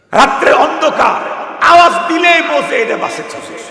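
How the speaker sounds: high, loud, impassioned sermon cry; full-force preaching. Acted. The preacher cries to the crowd about God's mercy, impassioned. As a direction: preach it at the top of your voice.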